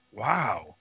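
low, hushed reaction; stunned. Retold or imitated. Man on the ride home after the scare, retold stunned murmur. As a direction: drop right down, quietly dazed.

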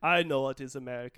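put-on the director's Italian accent, lightly done; mock Italian accent. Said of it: "don't do that accent".

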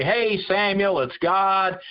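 put-on breezy and folksy, like an old buddy; lightly voiced casual God; mock casual God. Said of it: "God didn't come to Samuel and just say".

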